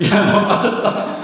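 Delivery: high, slow, teasing words through laughter; laughing Jesus. Acted. Jesus laughing at Peter sinking in the water, high slow teasing laugh. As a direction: cackle at Peter who just fell in. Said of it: "깔깔거리고 웃으시는 것 같아요".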